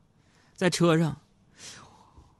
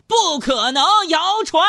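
mock outrage; 6 dB louder than usual. Listener message read out mockingly.

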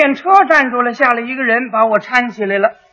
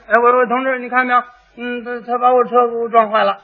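halting, slightly hushed, tripping over the first words; flustered stammering; flustered complaint; 4 dB quieter than usual. Acted. Flustered rider complains to policeman.

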